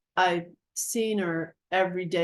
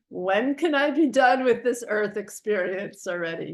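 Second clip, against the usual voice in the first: mildly exasperated retold plea; frustrated; 2 semitones higher, 4 dB louder than usual. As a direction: act out being fed up and impatient. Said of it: "frustrated. Like, I just wanna be done".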